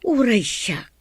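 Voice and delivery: hushed, uneasy whisper. Acted. Mother to her son about the troubled couple, whispered.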